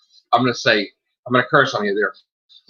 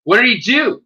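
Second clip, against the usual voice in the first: retold puzzled question; 8 semitones higher, 3 dB louder, slower than usual. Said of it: "I'm like".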